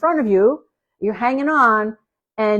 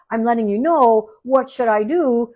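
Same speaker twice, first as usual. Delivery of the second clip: rising, louder "bark, bark, bark" as the dog; dog's voice building to a louder "bark"; voicing the dog; 2 semitones higher, 4 dB louder than usual. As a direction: play the worried dog building up to barks. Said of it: "what the dog is doing is saying".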